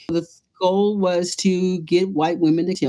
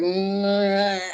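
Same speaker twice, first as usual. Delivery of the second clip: throaty doubtful hum. Retold or imitated. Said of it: "They're talking in their throat".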